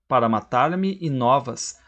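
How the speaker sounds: slow "para matar-me e novas" with me e as one long i; fuse "me e" into a single vowel before "novas"; elided. Shown as a demonstration. Teacher showing elision, "para matar-me e novas" with merged vowels. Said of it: "viram um e só".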